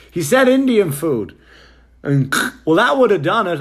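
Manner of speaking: hotel clerk mocked in a high, loud voice; high mocking clerk. Comic telling the crowd how the clerk mocked him, high and loud. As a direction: play the clerk as a shrill, smug caricature. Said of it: "And he goes".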